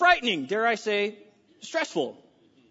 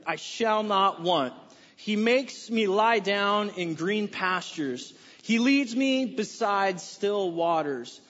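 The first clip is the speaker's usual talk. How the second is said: slow, measured recitation of a psalm, every word weighed; slow scripture reading; 3 semitones lower, slower than usual. Acted. Pastor leading the church in Psalm 23, slow and solemn. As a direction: read it together like a solemn liturgy. Congregation reads Psalm 23 aloud.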